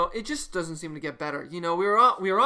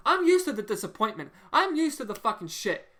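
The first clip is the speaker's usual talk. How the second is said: getting more fed up with every repeat; rising exasperation; 5 semitones higher than usual. Real, not acted. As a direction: pitch climbing higher each line. Fan's rant building in anger.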